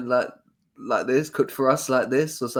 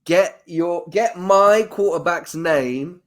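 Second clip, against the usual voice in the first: half-laughing mock scolding, slow and a bit louder; mock outrage; 4 semitones higher, 3 dB louder, much slower than usual. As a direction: pretend to be offended while laughing. Mock outrage defending his quarterback.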